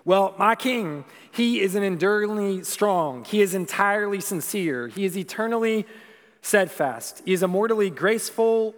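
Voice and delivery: building sermon cadence, punching each title; stirring call-and-response style preaching; rousing preached recital. Acted. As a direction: preach it like a rising litany. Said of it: "These are the words by S M Lockridge".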